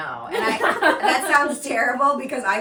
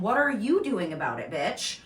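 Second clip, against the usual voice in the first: higher, louder exasperated tirade; mock angry rant; 5 semitones higher, 5 dB louder than usual. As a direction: rant at her, half laughing. Ranting at the mom in the video.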